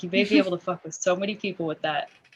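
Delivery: low, barely voiced mutter under the breath. Voicing a character speaking quietly to another character: muttering. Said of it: "muttering this to Hawk".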